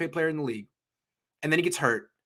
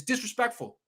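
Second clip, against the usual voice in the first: slow angry emphasis; 7 semitones higher, 5 dB louder than usual. Real, not acted. Ranting at the Niners.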